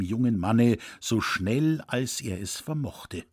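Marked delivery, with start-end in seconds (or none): none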